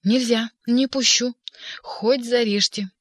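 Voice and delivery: loud, slow, desperate cry; desperate shout. A narrator's reading. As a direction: yell through the door. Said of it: "отчаянно кричала".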